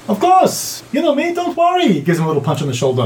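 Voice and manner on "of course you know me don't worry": high-pitched, cheery character voice; breezy reassurance. Acted. Companion answering the drow's warning, high breezy reassurance. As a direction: brush off the worry in a high voice.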